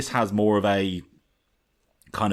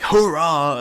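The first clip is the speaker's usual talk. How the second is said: high, loud imitation of a spat hook; bitter, spat hook; 8 semitones higher, 7 dB louder than usual. Fan mimicking the song's hook, bitter and spat. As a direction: spit it out bitterly, mimicking the singer. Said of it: "really bitter and kind of spat at you".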